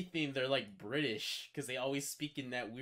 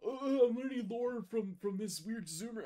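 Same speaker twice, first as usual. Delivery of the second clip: mock excited newbie; 10 semitones higher than usual. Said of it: "I'm like".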